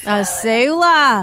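Aussie accent attempt. Singer repeating the slang in an Australian accent. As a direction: stretch "sewer" the Australian way. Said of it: "What else can you do?".

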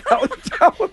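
choppy word by word, high; staccato. Retold or imitated. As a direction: chop it up one word at a time. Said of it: "he could do one word at a time".

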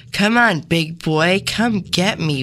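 lightly acted, drawn-out come-on; seductive. Helper luring killer from the script, mildly seductive. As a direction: tease with a mild mock-seductive lure. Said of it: "Be very seductive".

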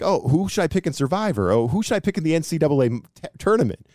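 high, mocking put-on voice of friends pestering for picks; mock friends asking. Friends and family asking the sports guy for picks, mock pleading voice. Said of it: "So they'll be like".

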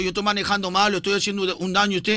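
a lightly voiced indignant cabbie; offended taxi driver. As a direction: play the driver taking offence. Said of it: "Yo voy a actuar como el bruto".

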